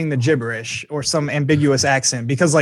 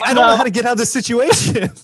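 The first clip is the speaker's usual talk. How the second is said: higher, mock desperate whine; trapped and desperate; 8 semitones higher, faster than usual. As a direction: plead to escape. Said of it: "you're like".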